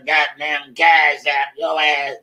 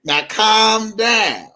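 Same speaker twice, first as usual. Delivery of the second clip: mock slow host; 4 semitones higher, slower than usual. Mimicking DJ Tyson's slow live talk.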